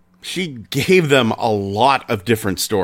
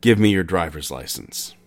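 lightly put-on German accent, lower; a hint of a German gunman's accent; 6 semitones lower than usual. Gunman demands the license in a German accent. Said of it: "said in a German accent".

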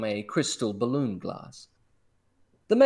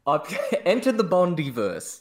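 laughing; 4 semitones higher than usual. Real, not acted. Laughing through title.

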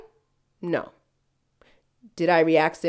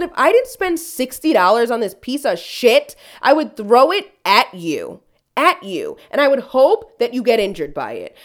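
louder heated threat; angry threat; 3 semitones higher, 5 dB louder than usual. Retold or imitated. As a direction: make her feel the threat. Retold angry clapback at owner.

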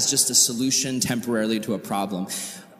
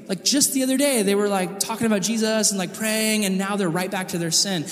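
gossipy onlooker; 6 semitones higher than usual. Retold or imitated. Youth pastor voicing gossiping onlookers.

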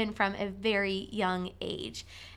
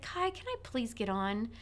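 softer, gentle please; polite soft ask; 5 dB quieter than usual. Retold or imitated. Boy asking his brother politely again, softer gentle ask. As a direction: ask nicely and quietly. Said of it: "And he said".

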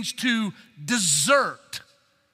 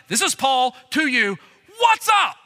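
blunt greeting; 3 semitones higher, 5 dB louder than usual. Retold or imitated. Blunt Paul skipping the niceties.

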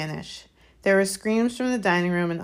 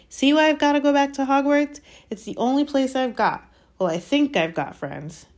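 agitated; 8 semitones higher, 3 dB louder than usual. Acted. Harry insisting he must go back.

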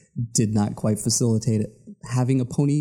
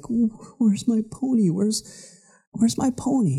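put-on high, pleading child voice; childlike whine; 10 semitones higher than usual. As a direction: whine it like a small kid. Child whining for his pony.

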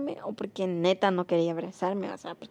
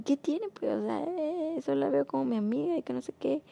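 higher-pitched mock excuse; lightly voiced, high defensive boyfriend; 5 semitones higher, 3 dB quieter than usual. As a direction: imitate a boyfriend brushing it off. Boyfriend's defensive reply acted out.

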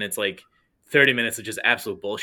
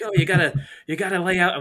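higher-pitched mild mock yell; 6 semitones higher than usual. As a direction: imitate yourself yelling at teammates, not full volume. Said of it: "yelling at people".

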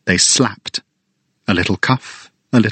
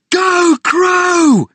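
much higher cheer; cheering yell; 4 dB louder than usual. Acted. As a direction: shout for the crow. Family cheering.

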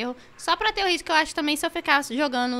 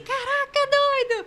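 very high amazed cry; excited exclaim; 12 semitones higher, much slower than usual. Retold or imitated. Still thrilled about the big stream, crying out. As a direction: exclaim it in disbelief. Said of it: "Eu falei assim".

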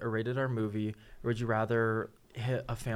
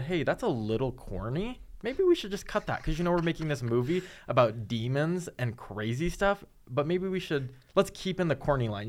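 tag; 4 semitones higher than usual. Retold or imitated. Acts out imagined film crew objecting.

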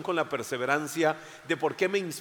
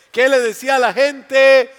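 preaching at full force; 8 semitones higher, 13 dB louder than usual. Acted.

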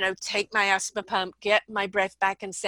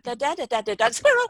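squirrel distraction; 8 semitones higher, 5 dB louder, faster than usual. Retold or imitated. Mimics distracted dog.

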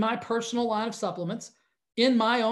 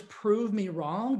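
mock tough guy; 3 semitones lower, much slower than usual. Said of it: "If I have to utter the words".

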